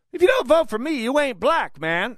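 high, put-on mocking imitation of a black accent; mock Biden black accent. Radio host mocking Biden's campaign line, high put-on accent. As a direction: sneer it as a bad Biden impression. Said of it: "doing his shucking and jiving attempt at a black accent".

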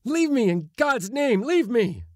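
high, loud frantic pleading; tormented, screamed plea; desperate cry. A narrator's reading. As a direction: beg the voices at the top of your pitch. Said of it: "he cried".

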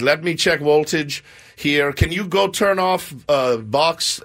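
deliberate Russian repairman, W for V; Russian accent. Retold or imitated. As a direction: imitate a halting Russian handyman. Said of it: "but they say voltage".

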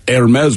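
Hermes said slowly as "air-MEZ"; French-style pronunciation. Shown as a demonstration. Host reading another listener comment, Hermes as slow air-MEZ. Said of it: "It's pronounced Hermes".

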